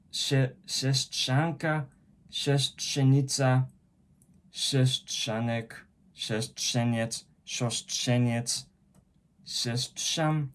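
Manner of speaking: "siostrzeniec" said slowly, sounding out each cluster; careful word list. Shown as a demonstration. Learner reading a list of hard Polish words, slowly. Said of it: "na przykład".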